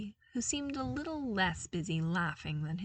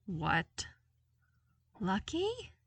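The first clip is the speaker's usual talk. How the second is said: thrown; much slower than usual. A narrator's reading. Luke off kilter.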